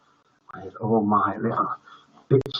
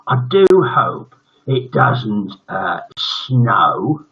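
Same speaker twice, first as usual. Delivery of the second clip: ominous teacher hint; 4 dB louder, much slower than usual. Acted.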